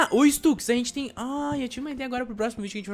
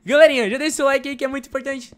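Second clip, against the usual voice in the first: youtuber plea; 7 semitones higher, 8 dB louder than usual. Acted. Youtuber asking viewers for likes.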